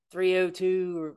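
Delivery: "oh" stretched long, high and slow; drawn-out O. Shown as a demonstration. Showing how locals say the "oh" in an area code, drawn out. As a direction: draw out the "oh" in "three oh two". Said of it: "you draw out the O's and everything".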